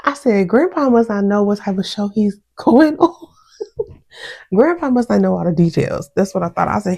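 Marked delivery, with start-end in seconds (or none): 0.5-3.3 laughing disbelief. Real, not acted. Mocking grandpa's naive TV plan.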